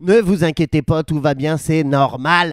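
low, calming reassurance; reassuring. Acted. Host reassuring beginners who fail, calm.

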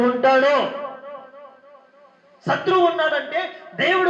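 high, ringing pulpit voice, pressing each line; preacher rousing the congregation at full force; fiery preaching. Acted. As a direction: preach it with mounting fervour.

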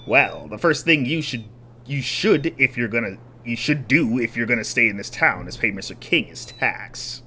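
smooth-talking swindler. Acted. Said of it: "swindler voice".

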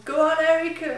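a lightly voiced crowd cheering a runner on; retold cheering. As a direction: call it out like family at the roadside. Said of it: "they was all screaming".

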